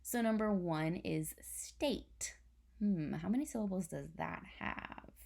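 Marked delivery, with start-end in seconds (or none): 1.4-2.4 slow whispered "state"; whispered word. Shown as a demonstration. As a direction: whisper "number one is state" slowly. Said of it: "spelling word whisper".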